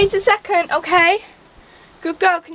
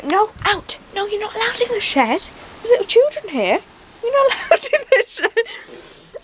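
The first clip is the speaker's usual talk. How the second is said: high sing-song scolding of the dog; mock scolding; 8 semitones higher than usual. Real, not acted. Telling the dog to stay out of the shed, mock scolding. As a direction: tell the dog off gently.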